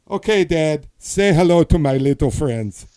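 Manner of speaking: loud, hammed-up Scarface quote; Scarface line. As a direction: belt it out like the famous movie gangster. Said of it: "it's the Scarface line".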